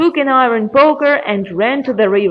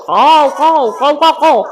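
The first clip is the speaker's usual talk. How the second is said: insistent raised caws; croaking raven; 4 semitones higher, 3 dB louder than usual. Acted. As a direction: caw it out, quickening at the end. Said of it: "starts croaking".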